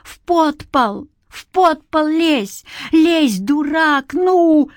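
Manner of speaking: high slow yell, scared and cross; frightened angry shout. A narrator's reading. Granny to the boy, a scared angry yell. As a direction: drive the boy to the cellar in fear. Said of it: "Испуганно, озлобленно ... смертельной усталостью".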